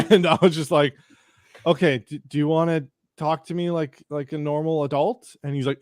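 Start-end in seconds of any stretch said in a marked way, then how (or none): 1.7-5.4 pointed question with a rising end, at usual pitch. Retold or imitated. Narrator confronts angry man, pointed rising question. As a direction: ask it firmly, lifting the last word. First take, before being asked "Excuse me?.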